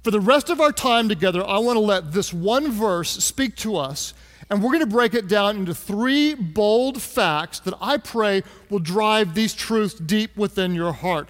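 ordinary talk, nothing marked

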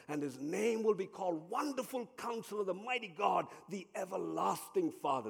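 lightly declaimed Bible verse; scripture proclamation. Acted. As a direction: proclaim each title with rising reverence.

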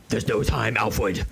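says "Alfred" with a muddled R, as "Alfwed"; speech-impaired Batman. Acted. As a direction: refuse therapy, softening the R in "Alfred". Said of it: "This is the no time for speech therapy Batman".

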